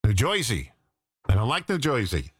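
mock Jersey "Joisey" pronunciation; New Jersey accent. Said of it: "the least sexy".

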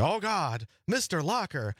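half-joking "uh-oh" alarm; mock alarm. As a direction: act out a pretend panicked reaction. Acts out mock reaction to announcement.

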